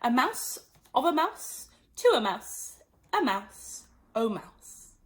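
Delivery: sing-song recitation; reciting declension. Acted. Alice reciting Latin cases to the mouse. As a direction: chant it like a grammar table. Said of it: "her brother's Latin grammar".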